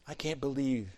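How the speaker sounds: low, quiet, restrained bitterness; cold condemnation. Acted. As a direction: condemn them under your breath. Imagined bitter Joseph condemns his brothers.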